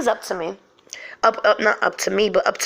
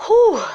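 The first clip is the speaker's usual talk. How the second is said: high, loud exhale of nerves; shaken "whew"; 13 semitones higher, 7 dB louder than usual. Real, not acted. Storyteller shaken by her own memory, shaken whew. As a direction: let out a high, rattled whew. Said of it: "I'm shaking just talking about this".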